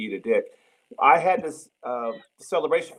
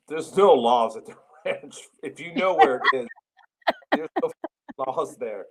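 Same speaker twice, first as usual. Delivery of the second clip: defiant mock boast; 2 semitones higher, 5 dB louder than usual. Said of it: "I'm like".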